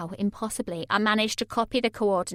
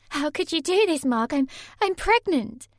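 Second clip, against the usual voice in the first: higher and louder, near tears; distraught Sammy; 6 semitones higher, 4 dB louder than usual. A narrator's reading. Sammy confronting Mark, higher and tearful. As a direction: break out in distress.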